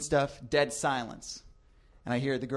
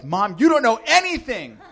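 high, louder mock-teen protest; whiny defiance; 8 semitones higher, 6 dB louder than usual. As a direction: whine it like a sulky teenager. Teen defying his mom.

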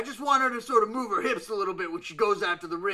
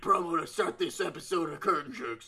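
promo voice. Pretend. Wrestler threatening the host with a long promo, promo voice. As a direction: play up the self-important promo. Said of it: "you're slipping into your promo voice now".

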